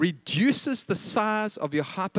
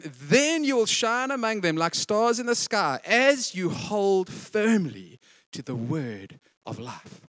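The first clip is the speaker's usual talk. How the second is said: slow, solemn scripture read; preacher reads the verse aloud to the church, slow; slower than usual. Acted. Slow, weighty Bible reading.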